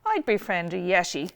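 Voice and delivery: hearty loud hare voice; loud and cheerful. Acted. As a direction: say it out boldly. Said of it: "in a loud and cheerful voice".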